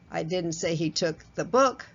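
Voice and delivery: book stressed with a rising end. Shown as a demonstration. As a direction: hit book, he took something else. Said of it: "same words, different meanings based on my voice tone".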